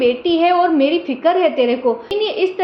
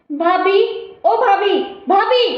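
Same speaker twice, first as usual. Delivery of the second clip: calling out loudly; 2 semitones higher, slower than usual. Acted. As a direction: shout the name, building each time. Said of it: "अरे बेटा क्यों चिल्ला रही है". (भाभी को ज़ोर से पुकारती हुई ननद, चढ़ती आवाज़ में)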